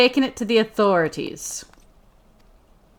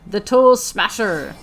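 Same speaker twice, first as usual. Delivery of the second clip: grand hero title. Pretend. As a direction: announce your heroic name.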